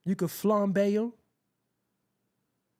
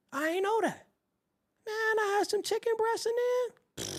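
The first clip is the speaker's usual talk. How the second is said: amazed; 13 semitones higher than usual. Real, not acted. Amazed about supermarket chicken.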